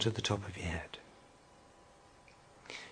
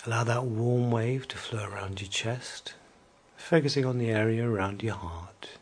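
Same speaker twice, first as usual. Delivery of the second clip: whispering. Acted. Relaxation induction, whispered.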